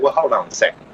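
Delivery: high, overly careful officer; polite officer voice. Retold or imitated. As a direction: ask it like a cautious cop. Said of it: "they're just like".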